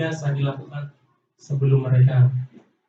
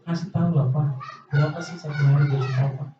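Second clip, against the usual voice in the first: put-on whining child. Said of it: "anaknya ngerengek".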